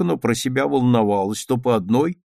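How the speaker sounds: ordinary delivery, nothing marked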